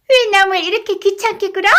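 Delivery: high, shrill mock lady's voice; mimicking a young lady. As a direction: ape her nightingale voice. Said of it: "정말 꾀꼬리 같은 소리를 내었다".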